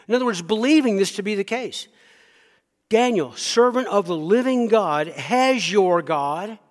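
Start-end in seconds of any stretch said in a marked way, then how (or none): 2.9-6.6 loud, higher anguished calling; pagan king calling. Acted. King calls down into the lion's den, loud anguished call. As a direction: cry out across the stone to Daniel. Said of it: "listen to what he says".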